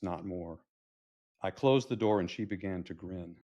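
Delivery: measured verse reading with falling line ends; poem recital. Acted. Grandfather telling of his padlocked garage, poetic recital. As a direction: recite the story in verse, unhurried.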